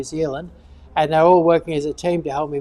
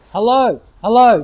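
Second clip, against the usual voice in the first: dopey country caller; 4 semitones higher, 9 dB louder than usual. Retold or imitated. Ad writer mimicking dopey New Zealand callers, loud dopey hello. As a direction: ham up a dopey country bloke ringing the radio. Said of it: "You sound like some really dopey person from the country in New Zealand".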